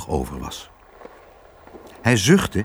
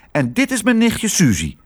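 high little mouse voice; chirpy mouse voice; 10 semitones higher than usual. Acted. Mouse introducing his cousin, high mouse voice. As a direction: pipe up like a small mouse.

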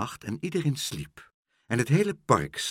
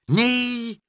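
high, loud drawn-out protest; exasperated cry; 7 dB louder than usual. A narrator's reading. Meneer Pen corrects muddled Karel, exasperated cry. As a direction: cry out, stamping in frustration. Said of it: "stampte met zijn voet".

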